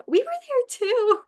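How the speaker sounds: very high, drawn-out crowd call; imitated calling out. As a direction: mimic a fan piping up, slowly and high.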